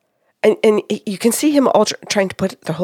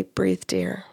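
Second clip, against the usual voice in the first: gentle reassurance; 8 dB quieter than usual. Retold or imitated. Wife calming her anxious husband, soft and gentle. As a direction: say it softly, to soothe. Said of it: "my tone of voice mattered".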